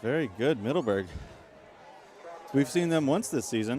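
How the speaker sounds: breathless after running up bleachers; out of breath. Real, not acted. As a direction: talk while catching breath. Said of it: "I apologize if I sound out of breath".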